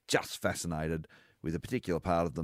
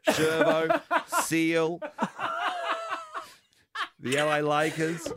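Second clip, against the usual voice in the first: laughing list; 9 semitones higher, much slower than usual. Real, not acted. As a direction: rattle off names while cracking up.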